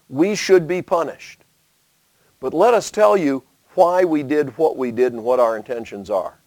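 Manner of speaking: lightly voiced, calm and respectful; sincere explanation. Eastern tribes explaining their altar to brothers, sincere appeal. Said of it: "They said".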